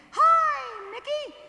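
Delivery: very high squeaky falsetto; Mickey Mouse falsetto. Shown as a demonstration. Yodel teacher demoing the high Mickey Mouse falsetto. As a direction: jump up into a cartoon mouse falsetto. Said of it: "Once again".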